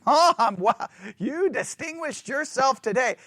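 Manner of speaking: put-on teasing sarcastic kid, pitch up; a kid mocking mom; cheeky mock praise. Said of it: "They could be being very sarcastic".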